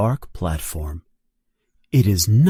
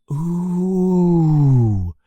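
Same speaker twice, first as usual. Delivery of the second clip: higher, drawn-out wonder; awed ooh; 6 semitones higher than usual. Acted. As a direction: marvel at the castle. Students all in awe.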